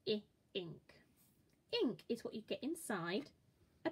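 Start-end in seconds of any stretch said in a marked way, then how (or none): 0.5-0.9 "ink" whispered softly, unvoiced. Shown as a demonstration. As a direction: whisper "ink" as a quiet model. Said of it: "Your turn".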